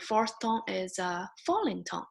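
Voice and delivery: "falling tone" drops at the end; tone song, falling. Shown as a demonstration. Teacher recalling the tone song, falling chant. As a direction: let the pitch fall on "falling tone". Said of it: "you still remember the song".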